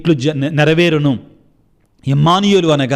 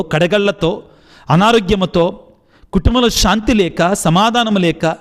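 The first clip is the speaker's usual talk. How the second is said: leading prayer. Acted. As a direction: plead with God on behalf of the sick. Leads congregation in prayer. (భక్తితో ప్రార్థన చేసే స్వరం)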